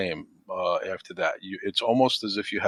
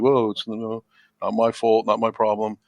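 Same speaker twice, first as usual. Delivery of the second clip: mock brush-off, slightly raised; dismissive; 3 dB louder than usual. People blowing off a friend's request, mildly dismissive. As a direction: lightly imitate someone shrugging off blame. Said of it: "some people can blow it off".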